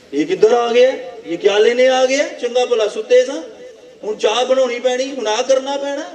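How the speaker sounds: lightly imitated put-out householder; grumbling host. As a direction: grumble about an unwanted guest. Grumbling host when the pastor visits.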